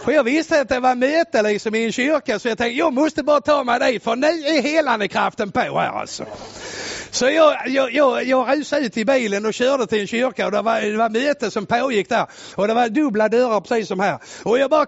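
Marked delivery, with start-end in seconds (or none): none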